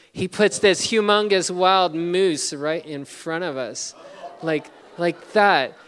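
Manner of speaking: each word stretched out in wonder; amazed. Real, not acted. Amazed at the moose.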